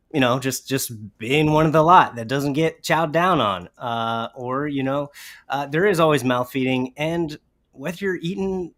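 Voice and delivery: ordinary talk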